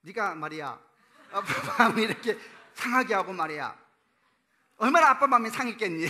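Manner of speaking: a father losing his temper in a loud, high scold; flustered scolding. Retold or imitated. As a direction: scold the son, loud and rattled, half laughing at yourself. 당황하기 시작했어.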